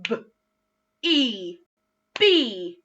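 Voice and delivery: "B, E, B" split into separate sounds; sounding out. Shown as a demonstration. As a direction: segment each sound with a pause. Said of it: "I'm gonna say it".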